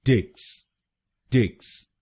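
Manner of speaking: टिक्स as a light "tiks"; last syllable alone. Shown as a demonstration. Teacher isolates the final syllable. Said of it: "हम बोलेंगे".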